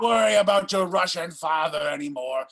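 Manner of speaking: fast, loud, hammy reassurance; mock dramatic shout. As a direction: boom it out like a mad scientist. Mad doctor reassuring creature.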